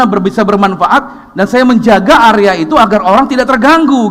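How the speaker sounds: loud, high, driving sermon voice; full-force preaching. Acted. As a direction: preach it hard to the congregation. (pendeta berkhotbah kepada jemaat, suara keras dan tinggi)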